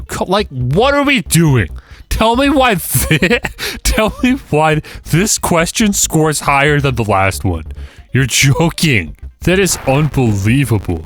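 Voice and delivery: high, laughing disbelief; incredulous. Real, not acted. Player baffled by the quiz scoring, laughing disbelief. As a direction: laugh it out in outrage.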